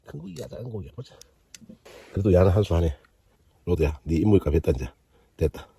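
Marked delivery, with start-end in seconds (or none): 2.1-5.7 loud triumphant cheer; excited shout. Real, not acted. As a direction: whoop as the rod finally delivers. Cheering a caught fish.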